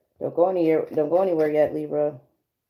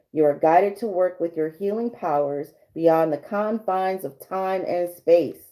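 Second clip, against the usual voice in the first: card reading voice. Acted. Rereads card message.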